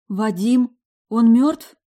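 high, loud, tearful panic; sobbing question. Acted. Alisa over the fallen man, tearful high question. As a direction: gasp it out through tears. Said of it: "всхлипнула Алиса".

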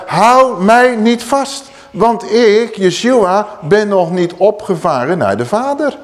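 slow, lifted voice of Jesus; solemn Yeshua. Acted. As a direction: plead gently but firmly. Yeshua's words to Mary voiced.

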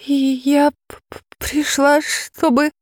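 high, stuttering with fright; can barely get the words out for fear; frightened girl stammering before the dragon; terrified stammer. Acted.

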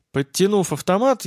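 usual speaking voice

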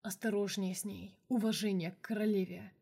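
hoarse, commanding tone; hoarse order. Acted. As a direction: rasp out the order. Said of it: "хрипло приказал".

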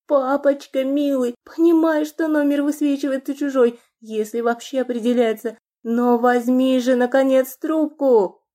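high, urgent, pressing plea; frantic pleading. Acted. Lana, trapped, begging her father to answer, frantic. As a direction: push through the panic, willing him to answer.

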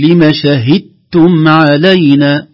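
"شهدتم" chanted slowly, d merged into doubled t; full assimilation. Shown as a demonstration. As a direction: say "شهدتم" as shahittum. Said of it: "الدال والتاء مخرج واحد". (إدغام الدال في التاء في "شهدتم")

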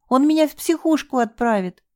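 high panicked cry; pleading in terror of the asylum; hysterical plea. Acted. Девушка в истерике боится психушки, высокий крик.

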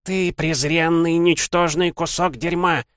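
high, slow spiteful crone hiss; vicious hiss. Acted. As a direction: spit it out with contempt. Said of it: "злобно прошипела она". (злобное шипение старухи)

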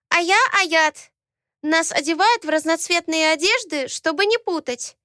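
put-on high childish voice, explaining; a small girl eagerly telling; chatty little girl. Ayat explains to Alaena, chatty childish voice.

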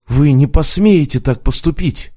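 high, loud falsetto cry; falsetto exclamation. Acted. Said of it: "фальцетом воскликнул он".

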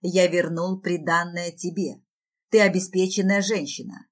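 understated gloomy firmness; grim. Acted. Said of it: "мрачно сообщает".

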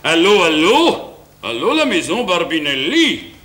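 slow, put-on Russian phone voice; fake Russian accent. Broke husband phones the grocer as Poliakov, fake Russian accent. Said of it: "Il prend l'accent russe".

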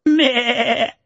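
high mocking goat bleat. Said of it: "начал блеять по-козлиному".

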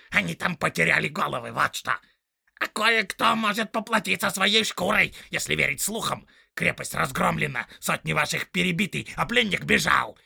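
loud, high snarling orc tracker; rough orc voice. Acted. Orc tracker arguing with the big orc, loud and snarling. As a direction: bark it out like a quarrelsome orc.

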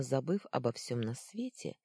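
usual speaking voice

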